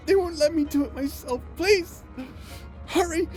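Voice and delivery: tearful urging. Acted. Urging haste while crying.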